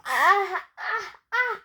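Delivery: acted gasps rising toward a sneeze; building sneeze. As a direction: catch the breath before a pretend sneeze. Character about to sneeze.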